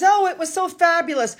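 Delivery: lightly voiced gushing fan, mocking; a touch of sarcastic gushing. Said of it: "they're putting out puff pieces".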